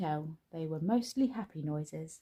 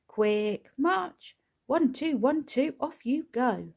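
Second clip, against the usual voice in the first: louder, high barked marching count; sergeant-major drill; 7 semitones higher, 6 dB louder, slower than usual. A narrator's reading. Dad marching his children off to chores, barked drill count.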